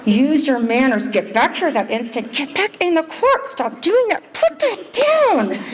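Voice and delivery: high, building into a shrill yell; rising scold. Retold or imitated. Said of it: "my voice is getting louder".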